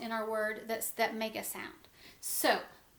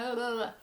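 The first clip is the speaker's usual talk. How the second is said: tongue-tied blah-blah noise; real slip into garbled blahs; tongue-tied babble; faster than usual. Real, not acted. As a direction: stumble into a quick babble. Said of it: "I'm getting tongue-tied".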